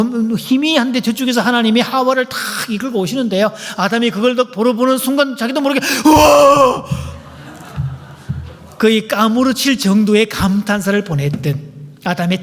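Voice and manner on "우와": loud high gasp of wonder; overwhelmed wow; amazed cry. Acted. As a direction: cry out in awe at first sight. Adam's amazed cry at Eve.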